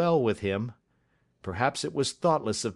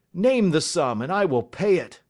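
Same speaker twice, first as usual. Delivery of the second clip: louder, higher, emphatic offer; eager offer; 4 semitones higher, 4 dB louder than usual. Acted. Banker catching up a pen to pay, eagerly. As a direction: offer it at once, forcefully.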